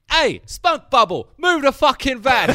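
high, slow-drawn movie-quote voice; put-on high voice, quoting a gangster film; imitated film line. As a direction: call it out like a film character. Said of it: "and he goes".

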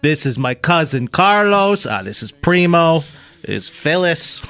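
slow, savored names, Italian-American style; mock Italian-American. Host naming pretend cousins, mock Italian-American accent. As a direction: roll out each name in mock Italian-American.

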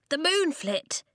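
high-pitched alarmed cry; urgent cry. A narrator's reading. Pippet alerting the sleeping Feather Tribe, alarmed cry. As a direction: cry out the warning. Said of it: "Pippet cried".

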